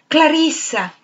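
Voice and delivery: calling out high and loud after her; shouted name. A narrator's reading. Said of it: "egli gridò". (chiamata gridata, acuta e forte)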